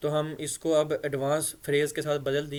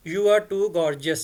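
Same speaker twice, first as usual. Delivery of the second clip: slow model reading; 2 semitones higher, 6 dB louder, much slower than usual. Shown as a demonstration. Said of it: "कैसे हम इसको बोलेंगे?".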